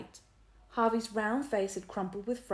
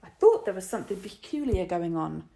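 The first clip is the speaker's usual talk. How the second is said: mildly; 6 dB louder than usual. A narrator's reading. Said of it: "Harvey said mildly".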